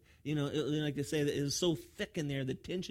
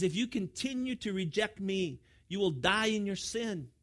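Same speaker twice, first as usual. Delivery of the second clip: raised, emphatic preacher's warning; stern warning; 6 semitones higher, 5 dB louder than usual. Retold or imitated. Preacher voices Jesus warning his rejecters, emphatic warning. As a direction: deliver it as a solemn warning, drawing out the end. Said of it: "He's giving them a warning".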